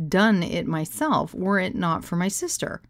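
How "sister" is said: whispered. Real, not acted. Embarrassed whisper aside.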